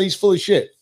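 said aloud at normal volume; said out loud. Retold or imitated. Telling himself again, now said aloud. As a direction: say it out loud and mean it. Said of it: "But I said".

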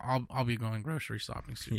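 a cracking, congested voice. Real, not acted. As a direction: voice breaks mid-sentence. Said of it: "My voice just cracked".

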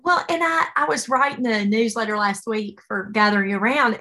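ordinary delivery

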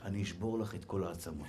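low, hushed mock menace; whispered threat. Husband to annoying wife, mock threat in a hush. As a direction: murmur the threat very softly and low. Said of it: "תגיד לה בלחש".

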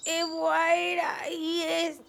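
garbled speech with missing teeth; toothless. Acted. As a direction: mumble through a broken mouth. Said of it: "¿Qué dijo? ... Ya se echó a perder".

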